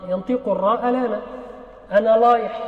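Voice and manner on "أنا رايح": أنا لايح with the r said as l; lisp r as l. Shown as a demonstration. Teacher showing a child's lisp: r as l. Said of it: "أبدلت الراء لاما".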